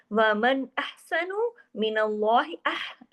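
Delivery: slow chanted recitation; Quran recitation. Shown as a demonstration. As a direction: recite it slowly in tajweed. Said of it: "मन के ऊपर हमने पूरा इजहार कर दिया". (तजवीद से धीमी तिलावत)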